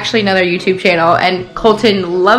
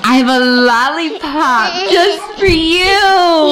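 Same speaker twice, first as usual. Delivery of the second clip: potty training praise; 6 semitones higher, slower than usual. Real, not acted. Rewarding toddler with lollipop.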